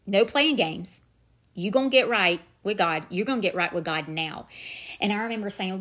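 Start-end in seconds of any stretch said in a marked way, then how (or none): 0.1-1.0 stern command. Retold or imitated. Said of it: "that still small voice said". 1.6-3.0 louder, firm inner voice that allows no argument; firm command. Retold or imitated. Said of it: "that still small voice said".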